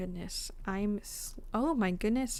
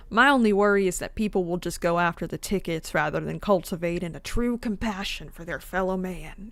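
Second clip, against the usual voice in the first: attempted Southern accent; 3 dB louder than usual. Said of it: "This is not a Southern accent".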